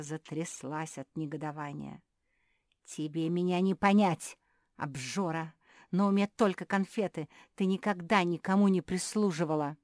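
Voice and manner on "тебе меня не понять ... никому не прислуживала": angry. Acted. Beatrice shaking with outrage.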